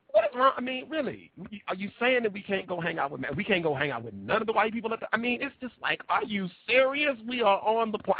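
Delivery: high incredulous what is wrong; mock disbelief. Mock incredulous plantation talk.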